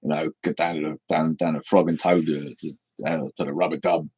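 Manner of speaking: thick, nearly unintelligible Cockney; true Cockney. Shown as a demonstration. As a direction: slur it like an East End Cockney. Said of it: "True Cockney is almost unintelligible".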